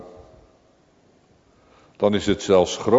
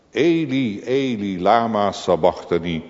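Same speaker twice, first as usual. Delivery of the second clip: crying out; 3 semitones higher than usual. Retold or imitated. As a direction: call out Eli like a cry from the cross. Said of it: "roept de Zoon des Vaders uit".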